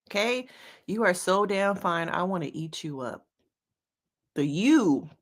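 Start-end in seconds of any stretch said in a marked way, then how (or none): 0.9-3.3 "You" leaned on at the start; stress on you. Shown as a demonstration. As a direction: put the weight on "You". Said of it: "emphasis on you".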